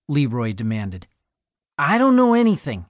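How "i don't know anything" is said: frightened denial. Acted. Scared boy questioned by cop.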